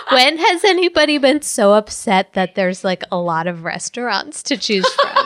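talks through laughter; chuckling mid-sentence; laughing while talking. Real, not acted.

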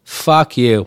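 slow, low bitter grumble; bitter rant. Real, not acted. Ranting at big stores, slow low bitter grumble. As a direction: spit it out slowly with contempt.

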